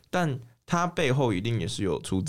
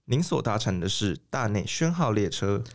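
formal radio announcer read; broadcast announcer voice. Pretend. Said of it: "你刚才为什么用播音腔讲话".

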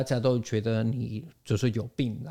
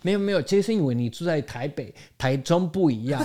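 insistent viewer; 4 semitones higher, faster than usual. Retold or imitated. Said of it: "他说".

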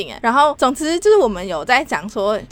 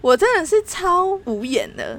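exasperated speechless; 8 semitones higher than usual. Real, not acted.

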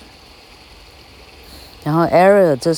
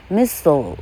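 "missile" in American English, "MIS-sul", second syllable reduced; American pronunciation of "missile"; American accent. Shown as a demonstration. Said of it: "missile是美国音".

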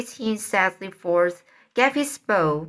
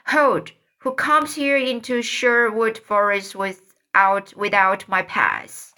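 calling out. Acted. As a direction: call the challenge across the forest. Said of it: "Tom called".

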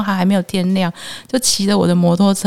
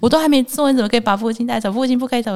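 dramatic pleading; 5 semitones higher, faster than usual. Retold or imitated. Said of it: "法师，你的戏".

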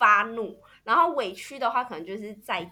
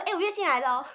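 casual calm announcement; 5 semitones higher, 3 dB quieter, faster than usual. Retold or imitated. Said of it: "隔天我就说".

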